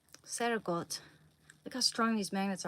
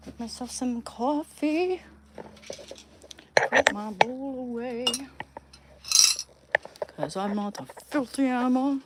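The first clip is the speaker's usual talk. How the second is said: loud declaration; 5 semitones higher, 9 dB louder than usual. Pretend. Loud mock-proud declaration.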